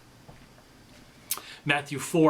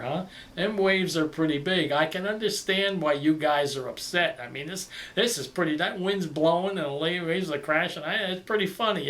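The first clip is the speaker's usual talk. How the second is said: casual buddy Jesus. Pretend. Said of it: "look at him and smile and go".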